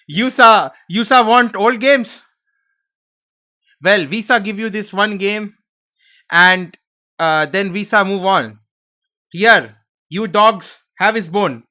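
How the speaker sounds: hammed-up clumsy sidekick tossing a bone; loud cartoonish Gungan accent; Jar Jar Binks. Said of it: "I'm doing a Jar Jar Binks thing".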